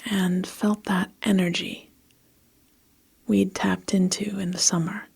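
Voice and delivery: measured, evenly phrased storytelling; story narration. A narrator's reading. Narrator recording a story for listeners, measured storytelling. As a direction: read it steadily with pauses between phrases. Reads a story between retakes.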